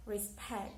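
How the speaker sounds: "Respect" with weight on the final syllable; stress on second syllable. Shown as a demonstration. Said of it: "because pact is louder".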